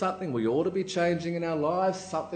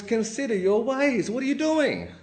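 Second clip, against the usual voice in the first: raised-pitch challenge to the crowd; prophet's rebuke; 8 semitones higher, 3 dB louder than usual. Acted. Haggai confronts the temple builders, rebuking. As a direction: call them out, high and insistent.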